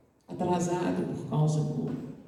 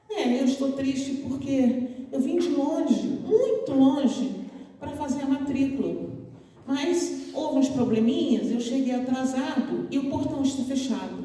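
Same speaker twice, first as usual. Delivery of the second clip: put-on sad young man; 4 semitones higher than usual. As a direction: pour out your disappointment gently. Sad student explains to the girl.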